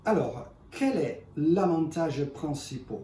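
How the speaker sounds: non-native French speaker; French with a foreign accent. Real, not acted. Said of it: "excusez-moi mon français".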